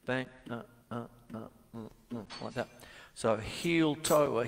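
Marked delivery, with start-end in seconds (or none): 0.1-2.2 imitated beat. Shown as a demonstration. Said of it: "it's like you're doing this".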